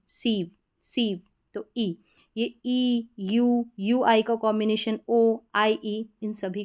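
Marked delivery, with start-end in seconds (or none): 0.1-1.2 सीव said slowly, isolated, with an i vowel; slow, separated सीव for the IE spelling. Shown as a demonstration. Teacher showing IE read as ई, slow सीव. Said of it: "आईई को ई".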